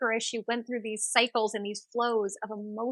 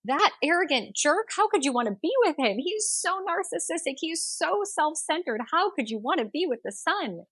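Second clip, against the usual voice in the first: mocking beggar; 7 semitones higher than usual. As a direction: sneer at the absent sun to tease her. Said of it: "but he's mocking the sun".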